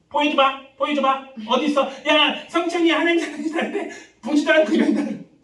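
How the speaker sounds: high, loud, mocking taunt.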